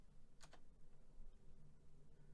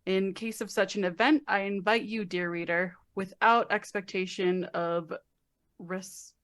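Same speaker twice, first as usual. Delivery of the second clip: reading a letter aloud; 3 semitones lower, 3 dB quieter than usual. Acted. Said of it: "I know you don't like reading aloud".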